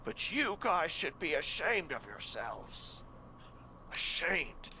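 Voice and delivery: slow, stern rebuke; scolding priest. Acted. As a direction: shame them, word by word.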